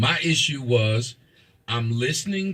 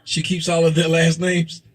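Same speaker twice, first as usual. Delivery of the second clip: louder, clearer repeat of the question; 4 semitones higher, 5 dB louder than usual. Real, not acted. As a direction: say it again louder for a caller who missed it. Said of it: "I still didn't hear you".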